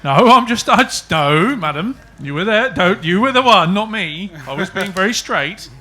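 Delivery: playful protest. Real, not acted. Mock protest at innuendo joke.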